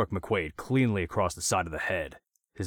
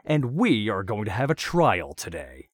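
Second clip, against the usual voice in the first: higher, louder mock-official proclamation; grand announcement; 6 semitones higher, 9 dB louder than usual. A narrator's reading. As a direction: proclaim it like a self-important judge. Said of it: "Andrews announced".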